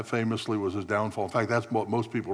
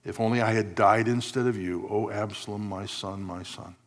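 mild mournful cry; 2 semitones lower than usual. Retold or imitated. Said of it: "he cried".

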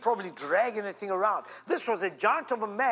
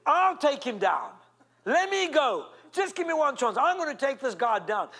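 higher, eager pleading; a keen boy begging for his chance; eager young David; 4 semitones higher than usual. Acted.

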